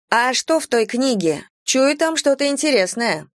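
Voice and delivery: high, lilting character voice; intrigued woman. A narrator's reading. Vanetta pipes up from behind, high intrigued voice. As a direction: pipe up high, sensing something interesting. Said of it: "подала голос Ванетта".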